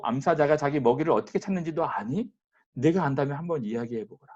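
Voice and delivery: corner him question after question; a preacher lightly voicing God cross-examining Job; fierce pressing. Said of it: "무섭게 몰아붙일 정도로".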